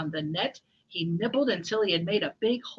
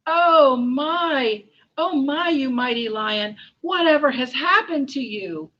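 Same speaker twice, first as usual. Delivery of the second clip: concerned mouse; 5 semitones higher, 9 dB louder than usual. Acted. Mouse to the trapped lion, shocked concern. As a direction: exclaim in a high storybook voice.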